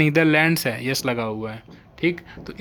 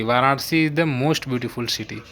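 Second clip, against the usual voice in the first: slow example sentence; slower than usual. Shown as a demonstration. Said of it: "slow example sentence".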